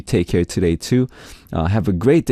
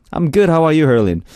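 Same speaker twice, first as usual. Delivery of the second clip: higher-pitched put-on Aussie reply; Aussie accent; 6 semitones higher than usual. Radio host plays along with a listener's greeting, Aussie accent. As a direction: answer back in a playful Australian accent. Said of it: "I'm gonna read this in Aussie accent".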